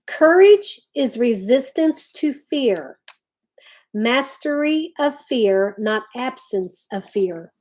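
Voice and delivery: slow, weighty reading of the quote; measured, solemn recitation; slow deliberate quote reading. Shown as a demonstration. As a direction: let each phrase land slowly. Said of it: "let me read another one".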